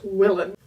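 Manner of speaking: Willen said villen, with an i sound; her pronunciation. Shown as a demonstration. Telling viewers how she says the name, Dutch-style pronunciation. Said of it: "I always say it in my head as".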